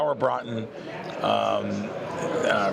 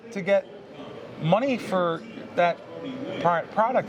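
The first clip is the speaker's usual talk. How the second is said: polite manager; 7 semitones higher than usual. Retold or imitated. Manager stops him at door.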